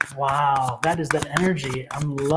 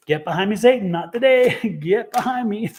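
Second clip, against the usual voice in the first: raised, louder mock rebuke breaking into laughter; playful rebuke; 4 semitones higher, 4 dB louder than usual. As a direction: banish Satan with amused, emphatic defiance. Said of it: "That's how I say it".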